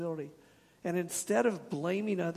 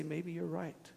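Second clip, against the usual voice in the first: gentle humble phrase; 4 dB quieter than usual. Shown as a demonstration. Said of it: "We need to learn to say".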